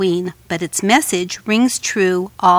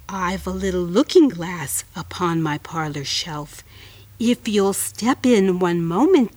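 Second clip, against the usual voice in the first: coaxing spider voice; 4 semitones lower than usual. Acted. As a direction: lure her gently like a spider. Spider flattering fly.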